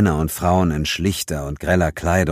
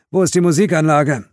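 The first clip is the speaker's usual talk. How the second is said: urgent partner voice; 10 semitones higher, 5 dB louder than usual. Acted. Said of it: "An Masterton gerichtet fragte er".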